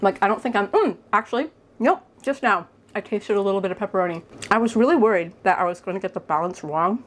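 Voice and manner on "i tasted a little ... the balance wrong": talking through a mouthful; mouth full. Real, not acted. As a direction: speak around a bite of food. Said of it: "I'm talking with my mouth full".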